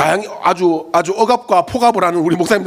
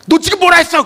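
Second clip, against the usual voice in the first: shocked; 13 semitones higher, 5 dB louder than usual. Retold or imitated. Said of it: "너무 충격을 받아가지고".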